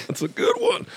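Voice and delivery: mock reassurance. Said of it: "I'm looking back at Joe like".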